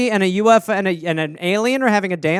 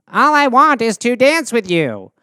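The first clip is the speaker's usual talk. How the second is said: gentle alien voice. Acted. Alien answers.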